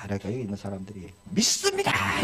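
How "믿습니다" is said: high crowd reply cried out; crowd shouting back. Retold or imitated. Preacher voicing the crowd answering the walker, high cry.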